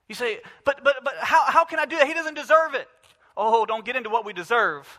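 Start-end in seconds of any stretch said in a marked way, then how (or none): 0.6-2.9 higher, louder mock protest of a churchgoer. Preacher imitating a listener who won't love his boss, mock protest. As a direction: stammer out the objection a bit higher.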